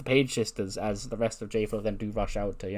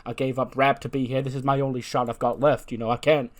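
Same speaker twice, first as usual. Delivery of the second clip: lightly acted desperate plea, pitch a touch raised; mild pleading; 3 semitones higher, 4 dB louder than usual. Wrestler begging Dave for his job, mildly pleading. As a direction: plead a little, leaning on the key words.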